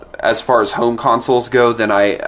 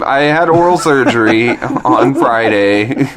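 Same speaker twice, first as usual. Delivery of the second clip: slow, clear repeat for someone who misheard; slow, careful repeat; slower than usual. Real, not acted. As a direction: spell it out slowly. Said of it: "repeat after being misheard".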